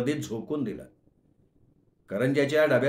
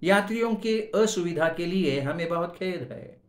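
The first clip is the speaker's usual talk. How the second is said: higher, far-off loudspeaker voice; station announcement; 3 semitones higher than usual. Acted. Railway announcer apologising to passengers, over the loudspeaker. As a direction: read it like a platform PA announcer. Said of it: "ती घोषणा ऐकली".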